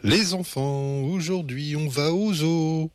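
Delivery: put-on high, lilting announcement to the children; enthusiastic sing-song mother. A narrator's reading. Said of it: "chante maman avec enthousiasme". (maman enthousiaste qui chantonne)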